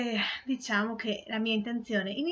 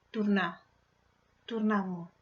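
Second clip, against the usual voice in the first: poem recitation. Acted. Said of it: "recitare una poesia che ho scritto in milanese".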